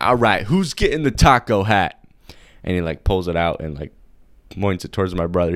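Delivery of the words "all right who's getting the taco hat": pushy clown. Retold or imitated. Clown offers hats to cousins.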